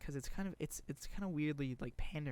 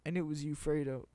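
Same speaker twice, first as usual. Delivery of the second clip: imitated movie quote; 3 semitones higher, 5 dB louder than usual. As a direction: act out the betrayal, hammed up. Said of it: "And he's like".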